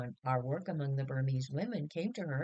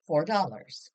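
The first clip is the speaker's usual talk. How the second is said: louder, firm and decisive; bold choice; 7 dB louder than usual. Acted. Mother choosing the best room, bold. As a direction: say it boldly as if it costs nothing. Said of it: "said Mother boldly".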